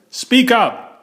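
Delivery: high call of speak up; shouted. Acted. Grocer to timid customer, a mock shout. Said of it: "tried his loudest whisper".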